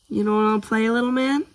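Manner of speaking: high, coaxing question; high-voiced coaxing of a small child; talking to a child. A narrator's reading. Ari gently asks a shy boy.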